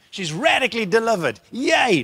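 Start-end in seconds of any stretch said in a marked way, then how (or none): 1.5-2.0 brief high-pitched hooray; mock cheer. Preacher cheering the girl's deliverance, mock cheer. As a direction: toss out a pretend cheer.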